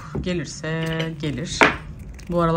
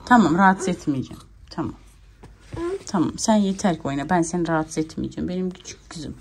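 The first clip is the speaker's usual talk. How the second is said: soothing. Real, not acted. Soothing upset baby.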